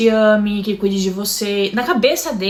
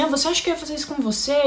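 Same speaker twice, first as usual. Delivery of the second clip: mock scornful, soft, high, through laughter; 5 semitones higher, 5 dB quieter than usual. Retelling what a partner said while laughing: imitating a mocking laugh. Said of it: "Ele começou a dar risada e falava assim".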